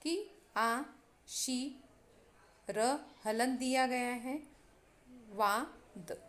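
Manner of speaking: आशीर्वाद split into आ, शी, र, वा, द with pauses between; syllable by syllable. Shown as a demonstration. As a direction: sound out आशीर्वाद one syllable at a time. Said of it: "इसे हम इस तरह पढ़ते हैं".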